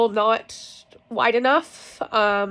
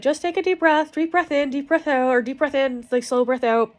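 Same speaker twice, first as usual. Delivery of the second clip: coaching breaths; 4 semitones higher than usual. Retold or imitated.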